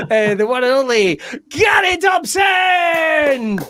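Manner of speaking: slow, high compere call; announcer shout. Acted. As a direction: draw out the name for the crowd. Host announcing guest.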